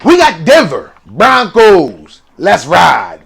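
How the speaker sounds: lightly put-on quarterback catchphrase voice; drawn-out team name, then the catchphrase; a hint of a celebrity imitation; Russell Wilson. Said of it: "in my Russell Wilson voice".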